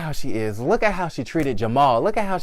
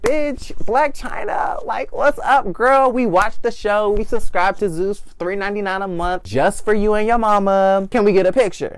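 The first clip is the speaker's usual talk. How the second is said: high, loud excited fan squeal; screaming fan girls greeting a celebrity; fans' voice; 6 semitones higher, 4 dB louder than usual. Retold or imitated. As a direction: gush like a starstruck fan. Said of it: "They was like".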